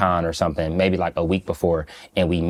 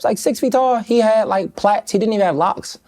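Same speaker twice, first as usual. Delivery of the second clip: amused. Real, not acted. Amused account of tall lookalike.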